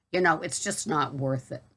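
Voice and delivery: casual Boston accent chat. Real, not acted. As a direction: talk it through in a Boston accent. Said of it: "I hope you enjoyed my Boston accent video".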